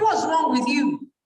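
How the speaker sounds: a mother's retold sharp yell; mock scolding shout. Mother scolding her fighting daughter, retold sharp shout. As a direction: snap at the child, half-acted.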